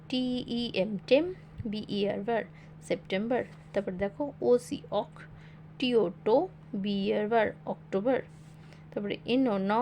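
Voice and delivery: letters spelled in chunks, each chunk then sounded out, like "জে এ যা"; spelling syllable by syllable. Shown as a demonstration. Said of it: "ভেঙে ভেঙে পড়বে".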